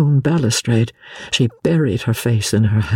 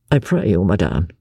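a hint of a lower, formal gentleman; Percy, lightly voiced; 6 semitones lower than usual. A narrator's reading. Husband answering his wife, a touch lower and formal. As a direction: answer her with stiff courtesy.

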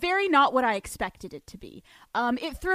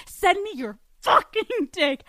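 mock demand; 6 semitones higher, 5 dB louder than usual. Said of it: "I am sexually harassing this man".

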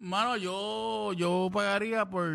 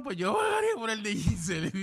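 voice cracking. Real, not acted. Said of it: "Hasta le salió un gallo y todo".

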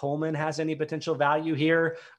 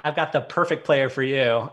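dry sarcastic pitch, said a bit louder; 7 dB louder than usual. Real, not acted. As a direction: sell it with obvious sarcasm. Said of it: "I'm definitely being sarcastic here".

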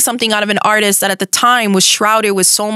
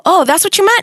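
high, bright surprised delight; thrilled disbelief, pitch jumping up; excited; 11 semitones higher than usual. Retold or imitated. Excited reaction to live rap.

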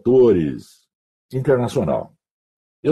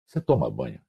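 lower, softer repeat; 9 semitones lower, 7 dB quieter than usual. Retold or imitated. Retelling to Viviane the boss's question, low and soft.

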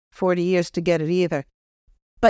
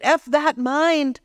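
slow, raised pitch; 7 semitones higher, much slower than usual. Acted. Channeled son swearing softly.

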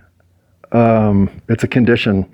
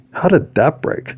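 puzzled surprise; 6 semitones higher, slower than usual. Real, not acted. Finds something broken.

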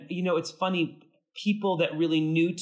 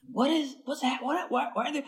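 high, bewildered questions; baffled at what you see; retold astonishment; 9 semitones higher, 3 dB quieter than usual. Shock at five hundred suits.

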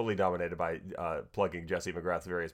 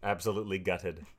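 attempted British accent. Shown as a demonstration. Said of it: "stopped doing the accent".

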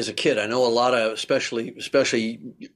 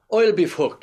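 Newfoundland accent; 6 semitones higher than usual. Shown as a demonstration. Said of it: "I was taught how to speak Newfie".

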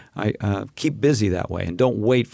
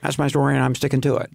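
Ron Howard. Pretend. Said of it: "like Ron Howard".

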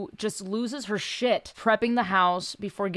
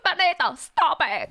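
higher-pitched hybrid Cuban-Russian character voice; weird Cuban-Russian accent; 6 semitones higher than usual. Shown as a demonstration. Comedian demonstrating her Latina mom character's voice, weird Cuban-Russian accent. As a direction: put on an outlandish Cuban accent that sounds Russian. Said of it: "She has a weird fucking accent".

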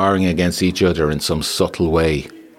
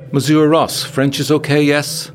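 high-pitched woman questioning him; much higher character voice, checking he follows; Fatima's voice; 10 semitones higher, 5 dB louder than usual. A narrator's reading. Fatima leans back to talk directly to Ross, high-pitched character voice.

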